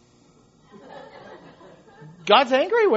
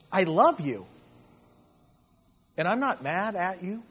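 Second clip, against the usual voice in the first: gentle parent. Retold or imitated. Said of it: "But it's".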